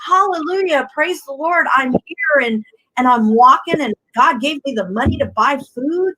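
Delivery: joyful praise. Retold or imitated. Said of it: "sitting up and saying".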